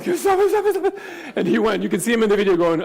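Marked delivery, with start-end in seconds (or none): 0.0-1.0 sharp, high hissed warning; urgent hushing. Retold or imitated. Officiant hushing his son, sharp and urgent. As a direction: hush a fidgeting toddler mid-ceremony.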